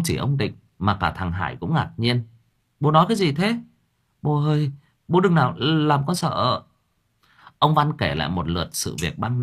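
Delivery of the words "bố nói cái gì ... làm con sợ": much higher, anxious plea; scared son. Acted. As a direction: beg his father not to scare him. Frightened son questioning father.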